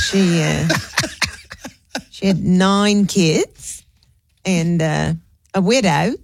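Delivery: lightly imitated, slow and matter-of-fact; Pamela telling a story. Friend Pamela's grim story, lightly imitated, slowed down. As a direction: drag it out, then drop dead flatly. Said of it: "this is how Pamela tells the story".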